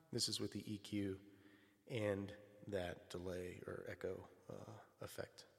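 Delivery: EQ'd voice with echo delay. Real, not acted. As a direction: speak through EQ plus delay. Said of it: "If I were to put them both on at the same time".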